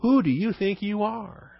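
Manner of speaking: high, slow, incredulous mock question; indignant challenge. Crowd takes issue with Son of Man title, acted indignant challenge. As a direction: take issue with him, drawing it out high. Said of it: "It's almost like".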